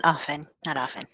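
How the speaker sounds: whispered reply. Real, not acted. Shy reply to teacher's question.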